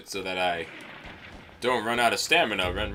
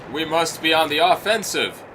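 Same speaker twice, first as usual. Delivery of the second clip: mildly raised, higher voice; exclaiming; 5 semitones higher, 3 dB louder than usual. Acted. Guard reading his orders aloud, exclaiming in a higher voice. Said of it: "begins to read them before exclaiming".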